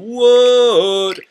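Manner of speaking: high loud startled yelp; startled what. Acted. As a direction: jolt awake with a yelp. Froggy startled again.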